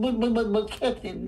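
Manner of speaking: sputtering voice held in the cheeks; Smee. Acted. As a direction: stammer like a flustered cartoon sidekick. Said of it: "he's all in here, in his cheeks".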